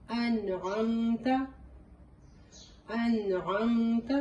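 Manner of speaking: انعمت drawn out very slowly with a clear throaty ain; Quranic recitation. Shown as a demonstration. Teacher reciting انعمت as a model. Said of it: "دیکھیں اس کو کیسے ادا کریں گے".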